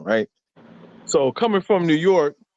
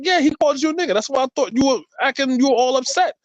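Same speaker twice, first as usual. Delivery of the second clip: raised-pitch imitation of someone's reply; retold explaining; 9 semitones higher, faster than usual. Man retelling what he was told, high-pitched explaining. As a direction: quote them in a much higher voice. Acting out the other person's reply.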